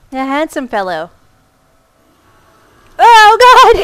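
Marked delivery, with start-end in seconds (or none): 3.0-3.8 loud, high cry of alarm; real frightened yell; startled shout. Real, not acted. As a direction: yell as it rushes at you. Monster suddenly charges.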